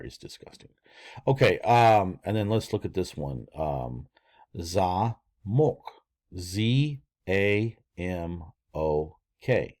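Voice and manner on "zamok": "zamok" said za-MOK; accent the second syllable of "zamok"; stress on O. Shown as a demonstration. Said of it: "you have the accent on the O".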